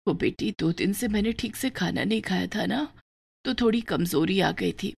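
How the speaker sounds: a sick poor mother speaking gently; lightly voiced frail mother, subdued; weak mother. Weak mother talks to daughter.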